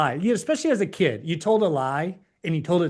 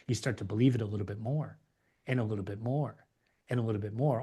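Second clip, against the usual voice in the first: fading away; 6 semitones lower, 8 dB quieter, faster than usual. Real, not acted. Repeating belief sinking in, fading.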